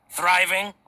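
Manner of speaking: a laugh breaking into a mocking, disbelieving question; scoffing laugh. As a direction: laugh off the word as if it's absurd. Merchant scoffs at rival's success.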